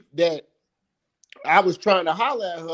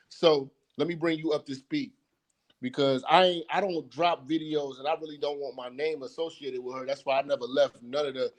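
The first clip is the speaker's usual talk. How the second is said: breaking up; 3 semitones lower than usual. Real, not acted. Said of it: "You breaking up".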